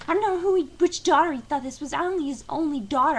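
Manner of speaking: hammed-up angry coworker ranting; imitating Tracy's rant. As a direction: spit out a furious tantrum in mock. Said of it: "she's going".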